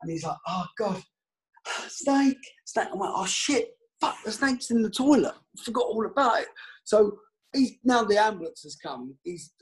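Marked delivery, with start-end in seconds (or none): 0.5-2.9 panicked cry. Retold or imitated. Old kit man spotting the python, panicked high cry. 3.2-6.5 higher, hurried oh-no voice; startled realisation. Retold or imitated. Player realising the snake's in the toilet, startled and higher.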